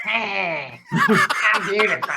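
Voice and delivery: high, sweet pet voice; a lightly squeaky pampered dog; cute pet voice. Pretend. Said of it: "same voice we give my dog Stella".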